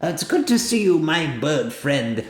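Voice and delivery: high, slowing little bug voice. Acted. Bug greeting its bird friend, high and slowing. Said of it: "the bug says".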